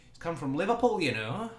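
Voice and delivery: high-pitched, put-on northern English accent. Explaining a player's Liverpool past, in a put-on northern accent. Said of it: "I keep going into the northern accents".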